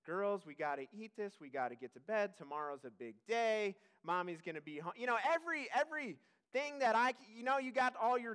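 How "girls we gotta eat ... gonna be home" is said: dad lines. Retold or imitated. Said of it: "every dad line I have".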